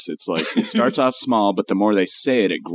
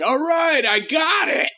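much higher dismissive devil; bored devil; slower than usual. Pretend. Cohost voicing the devil, high and dismissive. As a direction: brush it off, tired of hearing it. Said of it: "It's like".

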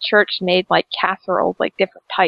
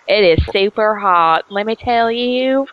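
put-on US southern accent, drawn out at the end. Shown as a demonstration. Showing the hosts the impression, in a southern accent. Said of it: "I can do a southern accent".

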